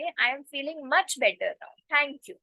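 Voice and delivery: very slow, clear English demo; slow model sentence. Shown as a demonstration. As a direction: spell it out slowly for learners. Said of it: "तो आप कैसे बोलोगे". (बहुत धीमे, साफ़ अंग्रेज़ी में)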